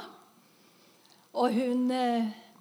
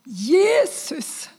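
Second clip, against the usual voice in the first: loud, much higher full-throated call; crying out to Jesus; 6 semitones higher, 9 dB louder than usual. Retold or imitated. Dying woman crying out to Jesus, loud call. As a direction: call his name with your last strength. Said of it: "Og tredje gang".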